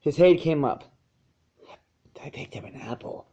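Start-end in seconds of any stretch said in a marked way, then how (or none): 2.2-3.2 whispered softly, almost unbelieving; breathed in awe. A narrator's reading. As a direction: breathe it out in quiet wonder. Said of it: "he breathed".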